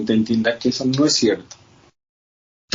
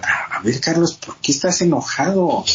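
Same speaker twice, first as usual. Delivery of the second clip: reproachful, pitch up on "¿por qué estás enojado?"; critical self-questioning; 5 semitones higher than usual. Shown as a demonstration. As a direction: scold yourself for being angry. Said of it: "esa forma de preguntarme ya me está diciendo que no debería estar enojado". (tono crítico y reprochador)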